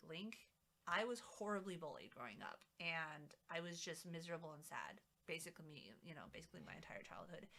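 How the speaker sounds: soft, teary words that fade away; a hint of held-back tears; teary mom. Mother softly and tearfully telling her son she was bullied. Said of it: "I actually started crying a little bit".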